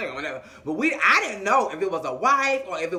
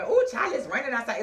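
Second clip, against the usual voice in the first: imitating the girls; 3 semitones higher than usual. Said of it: "you hear three girls coming".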